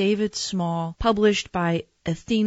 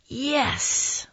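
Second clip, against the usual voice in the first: put-on high-pitched, gleeful child voice; delighted child; 9 semitones higher than usual. Boy thrilled by the nurse's news, high and gleeful.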